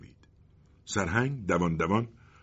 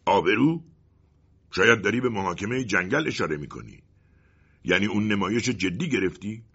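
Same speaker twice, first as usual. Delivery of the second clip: startled colonel; 3 semitones higher, 4 dB louder than usual. Acted. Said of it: "سرهنگ از جا پرید".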